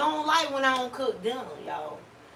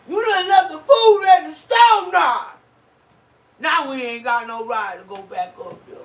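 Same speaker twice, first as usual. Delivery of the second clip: put-on whiny fat kid; 7 semitones higher, 12 dB louder than usual. Wife imitating husband wailing over left food, fat kid whine. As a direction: wail like a kid losing his cake. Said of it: "he sound like a fat kid that was about to miss his cake".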